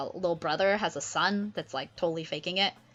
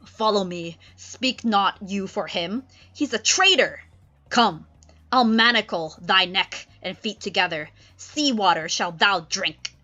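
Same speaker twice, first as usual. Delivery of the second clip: Prospero's voice; 5 dB louder than usual. Acted. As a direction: threaten the traitor sternly. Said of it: "Prospero's like".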